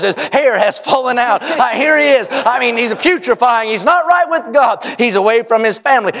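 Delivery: steady, emphatic sermon delivery; preaching. Real, not acted. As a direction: preach it to a congregation with conviction. Preaches, describing the leper.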